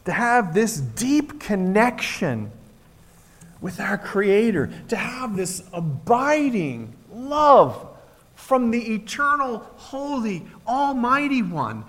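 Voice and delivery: slow, drawn-out and reverent; hushed awe, unhurried; slow reverent preaching. Acted. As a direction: linger over each word of the blessing. Lingering on God's love.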